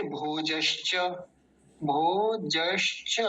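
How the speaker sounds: भोजश्च slowly, in parts: भो, जश्, च; syllable-by-syllable demo. Shown as a demonstration. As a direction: stretch भोजश्च out for learners, each part clear. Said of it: "ऐसा हो गया". (भोजश्च धीरे-धीरे, तोड़कर)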